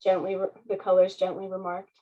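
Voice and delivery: put-on lively read-aloud for children; story narration. A narrator's reading. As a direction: read it like a bedtime picture book. Reading picture book aloud.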